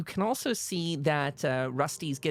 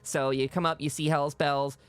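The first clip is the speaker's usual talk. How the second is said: ordinary talk, nothing marked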